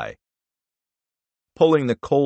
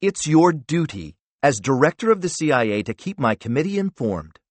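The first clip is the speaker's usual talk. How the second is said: lecturing senator; 6 semitones higher than usual. Acted.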